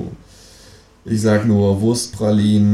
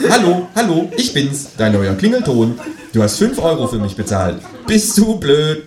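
squawky ringtone voice; 8 semitones higher than usual. Acted. Känguru imitates ringtone again.

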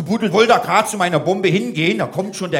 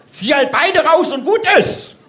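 loud careless order; 10 semitones higher, 5 dB louder than usual. Retold or imitated. Ordering the officer.

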